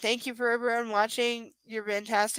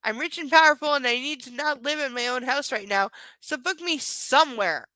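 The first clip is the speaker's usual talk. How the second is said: mocking rich guy; 3 semitones higher, 3 dB louder than usual. Mocks the entitled character.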